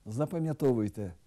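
ordinary talk

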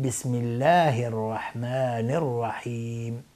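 slow, measured «بسم الله الرحمن الرحیم»; correct recitation. Shown as a demonstration. Teacher models the basmala for students, slow correct recitation.

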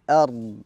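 "أرض" ending on a drawn-out ض; elongated final Dad. Shown as a demonstration. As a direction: stop on "أرض", stretching the ض without adding a vowel. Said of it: "بصفة الاستطالة في الضاد".

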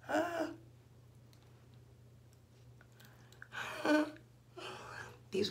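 inserting dentures while talking; speaking with fingers in mouth. Real, not acted. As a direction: hands at mouth muffled. Seen 1: Both hands hold denture at open mouth, pressing it in.

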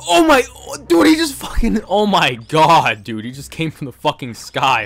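breathless high panic; real fright, words tumbling out; panicking. Real, not acted. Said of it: "sorry for panicking".

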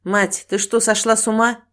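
mild husbandly reproach; understated scolding question; reproachful. Acted. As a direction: chide your wife in disbelief. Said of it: "укоризненно сказал Василий Игнатьевич".

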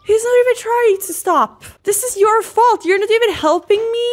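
high-pitched, exasperated rant; outraged complaint. Real, not acted. Player blaming others after Penna won't stop, outraged.

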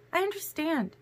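high, soft reassurance; reassuring. A narrator's reading. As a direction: assure gently in a light, high voice. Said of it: "Alice assured him".

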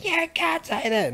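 high-pitched mocking whine; shrill mock outrage at a comment; offended objector. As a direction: mimic an easily offended critic. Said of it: "someone's out there going".

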